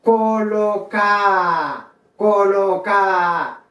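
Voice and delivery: colocar said "co-lo-CAA", a long final A, no R; dropped D. Shown as a demonstration. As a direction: draw colocar out slowly to a falling open A. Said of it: "notre deuxième lettre".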